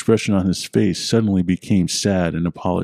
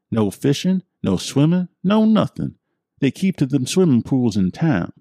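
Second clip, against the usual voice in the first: put-on much higher, spooked old-timer confiding; old man with accent; 5 semitones higher than usual. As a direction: warn the stranger in a high folksy voice. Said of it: "it was his accent that caught my attention".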